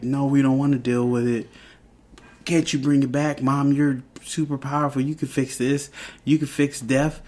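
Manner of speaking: lightly imitated kids begging their mom; pleading kids. Boys beg mom to undo a death, pleading.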